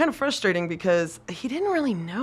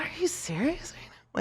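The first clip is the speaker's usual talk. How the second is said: higher, incredulous instructor; mock incredulous; 9 semitones higher, 7 dB quieter than usual. Instructor stunned by the student's answer, high incredulity. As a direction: play the baffled instructor.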